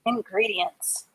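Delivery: words given one by one with long gaps; slow dictation. Shown as a demonstration. Teacher dictating a sentence for children to copy. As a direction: dictate slowly while writing. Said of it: "Let me, uh, write that in a sentence".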